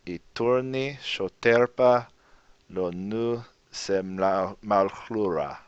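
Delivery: slow, soft, careful Lojban reading. Shown as a demonstration. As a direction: read the poem slowly, word by word. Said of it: "I'll read it slowly".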